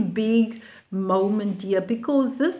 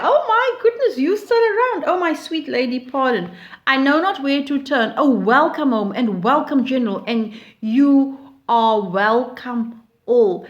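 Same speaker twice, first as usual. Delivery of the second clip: put-on excited old Menenius, pitched up; delighted old friend; 2 semitones higher than usual. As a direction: greet everyone with bubbling joy. Reading Menenius greeting Valeria.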